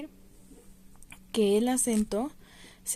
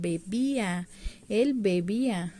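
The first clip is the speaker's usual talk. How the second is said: bebía with the í leaned on and held; be-BÍ-a, middle syllable stressed; slower than usual. Shown as a demonstration. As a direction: lean on the í in bebía. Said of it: "llevan acento en la i".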